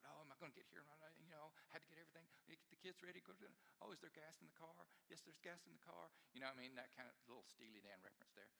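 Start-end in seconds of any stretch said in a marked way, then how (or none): 0.0-6.1 flustered inner voice. Retold or imitated. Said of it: "You just thought".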